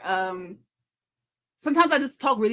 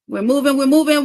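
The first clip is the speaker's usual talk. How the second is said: excited; 5 semitones higher, 8 dB louder than usual. Real, not acted. Hair session progress cheer.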